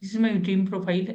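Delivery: slow, measured model answer, slightly low; unhurried demo with deliberate gaps between phrases; slow with pauses. Shown as a demonstration. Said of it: "आपको धीरे-धीरे बोलना है answer को".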